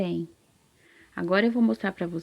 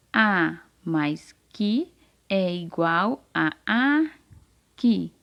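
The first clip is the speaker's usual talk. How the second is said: very slow blending; much slower than usual. Shown as a demonstration. Teacher blends the syllables.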